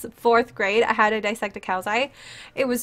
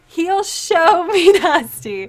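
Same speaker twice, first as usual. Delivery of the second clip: laughing; 4 semitones higher, 4 dB louder, much slower than usual. Real, not acted.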